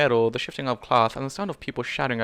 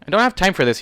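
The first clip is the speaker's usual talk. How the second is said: growled; 8 semitones higher, 8 dB louder than usual. A narrator's reading. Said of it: "he growled under his breath".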